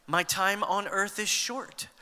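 slow, leading the congregation in unison; slow call-and-response. Shown as a demonstration. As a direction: say it slowly so they can follow. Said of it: "Everybody say it with me".

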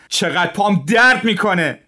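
high, loud cry of pain. A narrator's reading. Kostylin crying out in pain from his foot, high and loud. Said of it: "کاستیلین فریاد زد".

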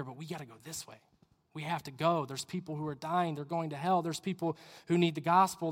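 soft, understanding appeal; tender pleading. Acted. Jesus to a kid looking back, tenderly pleading. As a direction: coax gently, keeping the voice down.

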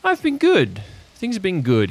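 put-on high, mellow old-timer; old man voice. Marv answering his visitor, lightly voiced old man.

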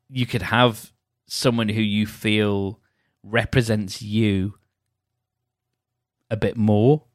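talking through a held-back yawn; slow, swallowing a yawn; stifling a yawn. Real, not acted. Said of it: "I was just stifling a yawn".

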